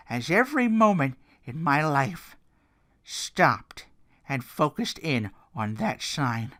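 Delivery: a lightly voiced dramatic wrestling promo; hint of a gravel-free Foley promo; Mick Foley impression. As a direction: tell it like a haunted veteran, building. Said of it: "my Mick Foley is already not that good".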